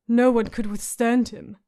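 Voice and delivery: a hint of a grim rasping warrior; rasped. Hound grimly repeating the girl's words, understated rasp. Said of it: "the hound rasped".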